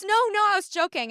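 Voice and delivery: high, loud, hurried retraction; quick high-pitched protest; mock backpedaling. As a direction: imitate someone scrambling to take it back. Retells man's hasty backpedal.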